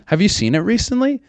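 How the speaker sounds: very high mimicry of a chatbot; mocking the AI assistant. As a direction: parrot her question in a silly high voice. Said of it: "I didn't like the".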